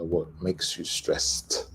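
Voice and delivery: careful demo of the t closing "stressed"; final T sound. Shown as a demonstration. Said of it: "ending is a, a T sound".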